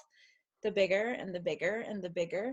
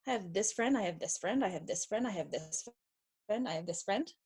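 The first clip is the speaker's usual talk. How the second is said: counting off friends; 2 semitones lower, 6 dB quieter than usual. Retold or imitated. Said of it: "you're like, No".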